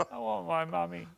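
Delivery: put-on high little-kid plea; mock helpless child. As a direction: play a hurt child wanting mother. Acts himself helpless after headbutt.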